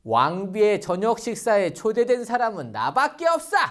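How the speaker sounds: boasting through a laugh; mock-proud, laughing as he brags; gloating laughter. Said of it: "하만은 너무 기분이 좋았어요". (웃으며 으스대는 하만)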